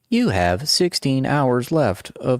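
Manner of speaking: putting on a tiny headset voice; little AI voice. Retold or imitated. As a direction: mimic a little automated battery alert. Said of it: "It's like this little voice".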